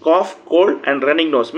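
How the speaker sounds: very slow, each word spaced for note-taking; slow dictation pace. Shown as a demonstration. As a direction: spell it out slowly so students can write it down. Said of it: "ఒకసారి note చేసుకోండి". (విద్యార్థులు రాసుకునేలా చాలా నెమ్మదిగా)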